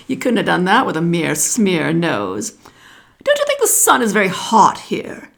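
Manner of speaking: put-on the wise old snake giving advice; lightly voiced python snake.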